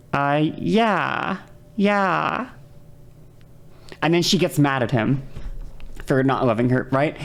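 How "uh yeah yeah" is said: mock-uncomfortable hesitant yeah, rising at the end; awkward dodge. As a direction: play the cornered guy stalling. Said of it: "he just like".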